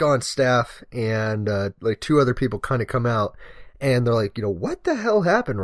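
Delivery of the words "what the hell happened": high-pitched imitated concern; alarmed question. Colleagues finding lieutenant after asthma attack, imitated alarmed question. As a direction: ask in raised-voice disbelief.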